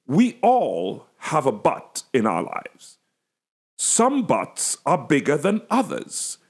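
slow, preached, leaning on but; emphatic preaching. Retold or imitated. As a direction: hammer the word but like a sermon point. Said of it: "the way I emphasized it was I kept saying".

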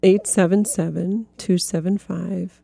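slow, deliberate phone number; said slowly. Shown as a demonstration. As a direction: read each digit out slowly for writing down. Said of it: "I say it slowly".

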